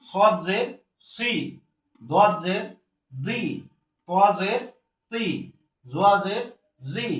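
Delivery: measured Arabic alphabet drill, pausing before each sound; teacher modelling each letter distinctly; careful letter articulation. Shown as a demonstration. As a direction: spell out each letter with a rising lilt, then its syllable. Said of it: "মাখরাজগুলো যদি খেয়াল করেন".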